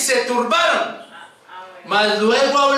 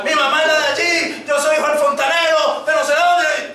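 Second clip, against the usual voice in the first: slightly raised, insistent pleading; mock panicked yell; imitated frightened shouting; 3 semitones higher than usual. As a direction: imitate a man yelling who he is. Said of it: "empezaba a gritar".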